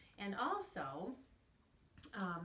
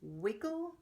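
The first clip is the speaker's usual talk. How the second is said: wiggle called out loud and clear for the class; loud drill word; 6 dB louder than usual. Shown as a demonstration. Teacher drilling the class, calling out wiggle loudly. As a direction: say wiggle loudly so the kids can echo it. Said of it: "repeat after me".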